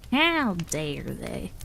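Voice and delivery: "How dare they?" dragged out very slowly, rising at the end; milk the mock indignation, drawing each word out slowly; hammed-up pretend offense, very slow; mock outrage. Shown as a demonstration.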